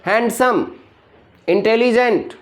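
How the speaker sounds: हैंडसम and इंटेलिजेंट said in separate syllable beats; broken into syllables. Shown as a demonstration. Teacher showing students how words break, हैंडसम and इंटेलिजेंट split into syllables. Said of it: "वो break हो जाता है".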